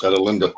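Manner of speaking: "Adelinda" with short a, as in "add"; pronunciation demo. Shown as a demonstration. Showing the host how the name goes, "Adelinda" with a short first a. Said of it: "that's how that's pronounced".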